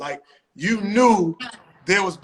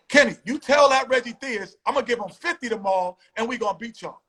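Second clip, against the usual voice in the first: retold trash talk; 5 semitones higher than usual. Acts out Michael Jordan's trash talk.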